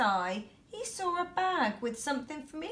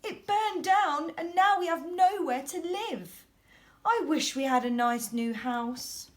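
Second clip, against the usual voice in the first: high little mouse voice pleading; a tiny upset mouse squeaking; mother mouse wishing for a home; squeaky mouse; 5 semitones higher, 5 dB louder than usual. A narrator's reading. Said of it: "squeaked the mother mouse".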